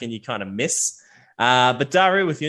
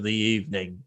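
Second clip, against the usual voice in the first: Spruce Tuffer; 3 semitones lower, 3 dB quieter than usual. Acted. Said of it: "Spruce Tuffer kinda walks out".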